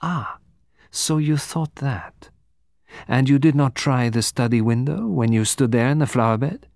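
put-on lightly accented detective, deliberate and probing; measured detective's questioning; Poirot questioning. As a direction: probe politely in a careful foreign accent.

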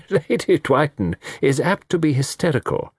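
offhand, breezy tone; light. A narrator's reading. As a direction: brush it aside lightly. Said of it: "he said lightly".

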